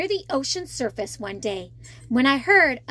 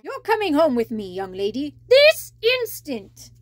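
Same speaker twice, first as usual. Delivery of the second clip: scolding crab; 4 dB louder than usual. Acted. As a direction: order her home sharply. Sebastian scolds Ariel.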